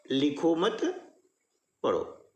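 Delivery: लिखो मत as one group, long break, low falling पढ़ो; pause after मत. Shown as a demonstration. Teacher repeating the moved comma example, pause after मत. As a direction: hold the break after मत, then drop on पढ़ो. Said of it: "अल्प विराम का प्रयोग मैं यहाँ पर".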